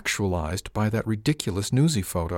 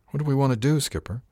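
confused; 7 semitones higher than usual. Acted. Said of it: "the confusion in her voice".

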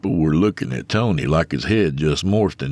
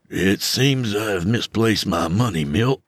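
embarrassed; 4 semitones higher than usual. Acted. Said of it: "wilting inward with embarrassment".

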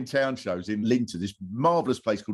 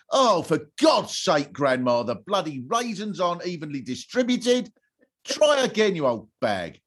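put-on bratty kid complaining; 5 semitones higher than usual. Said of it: "they'll go".

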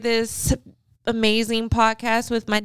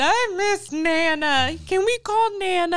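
imitating whiny child; 7 semitones higher than usual. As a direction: plead like a homesick kid. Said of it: "He was still sad".

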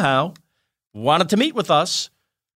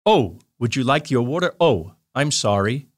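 lower, slowed-down Jerry Lewis; the same clumsy bit done deliberately slow; Jerry Lewis bit replayed slowly, a touch lower; slow Jerry three; 6 semitones lower than usual. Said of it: "just does everything he just did, just slowly".

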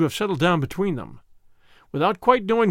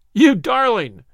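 loud, higher-pitched outburst of love; delighted cry; 6 semitones higher, 7 dB louder, slower than usual. A narrator's reading. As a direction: cry out, overjoyed at the admission. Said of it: "cried Tommy".

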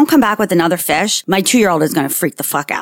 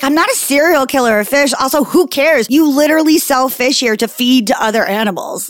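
indignant retort; 6 semitones higher than usual. Retold or imitated. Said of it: "I was like".

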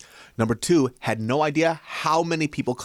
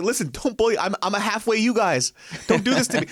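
mock pleading; 9 semitones higher than usual. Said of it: "I was like".

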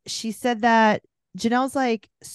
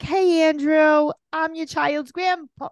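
much higher, slow, sing-song giddy greeting; giddy Babs; 9 semitones higher, 4 dB louder, slower than usual. Retold or imitated. Podcaster mimicking giddy grandma greeting Andrew, high slow sing-song. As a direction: gush at him like a giddy grandma. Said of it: "almost giddy".

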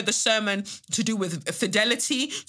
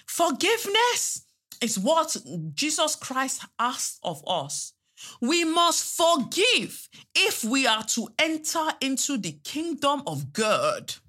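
high, slow mocking pulpit voice; mock preacher; 6 semitones higher, slower than usual. Mocking a cheating pastor preaching forgiveness, high slow preacher voice. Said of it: "get on the pulpit and they'll be like".

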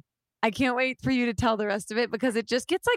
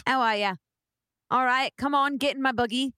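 playful attempt at British chat; mock British accent. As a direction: imitate a British guy, jokingly. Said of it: "Thick British accent".

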